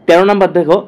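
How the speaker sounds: ordinary delivery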